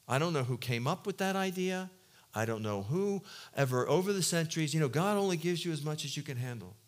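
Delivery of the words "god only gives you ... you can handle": offhand quote of a tired saying; quoting a cliche. Retold or imitated. Preacher quoting the cliche he rejects, offhand. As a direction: toss off "God only gives you as much as you can handle" like a worn cliche. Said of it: "how's the cliche go?".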